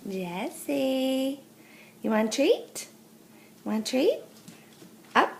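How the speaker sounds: high, rising treat offer; talking to a dog. Real, not acted.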